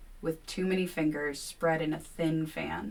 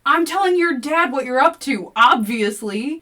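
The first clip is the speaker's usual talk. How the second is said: much higher, louder threat; 9 semitones higher, 12 dB louder than usual. A narrator's reading. Kevin threatening William, high and loud. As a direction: threaten him outright.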